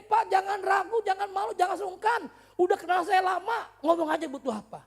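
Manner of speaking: high, shouted preacher delivery; loud, sustained high-pitched urging; full-force preaching. Acted. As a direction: belt it out to the whole congregation.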